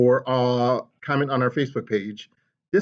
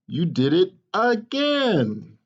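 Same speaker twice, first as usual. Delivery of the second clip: weary father; 5 semitones higher, much slower than usual. Acted. Papa sighs slowly.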